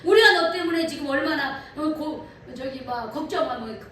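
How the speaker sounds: a preacher voicing Mary and Joseph scolding young Jesus; parents scolding. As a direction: play the worried parent telling him off. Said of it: "뭐 야단을 칩니다".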